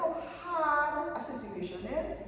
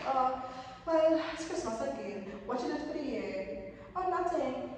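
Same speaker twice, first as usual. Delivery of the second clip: higher mock-casual shrug voice; higher, careless mock excuse; mock lazy excuse; 4 semitones higher than usual. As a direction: play the lazy person dismissing the year. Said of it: "be like".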